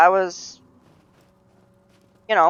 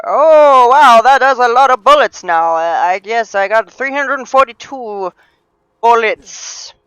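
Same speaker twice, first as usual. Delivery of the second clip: loud, high wow of amazement; real raised-voice astonishment, easing slightly; impressed surprise; 5 semitones higher, 10 dB louder than usual. Real, not acted. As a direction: marvel loudly at a big haul. Player sees big ammo count.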